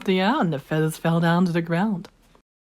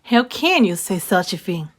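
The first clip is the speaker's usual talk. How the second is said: stern; 3 dB louder than usual. Acted. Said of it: "said Mama Duck in a stern voice".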